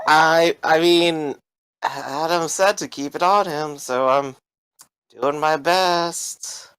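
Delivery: flustered underling. Acted. Greg excuses himself to Sarah for holding the gun, flustered.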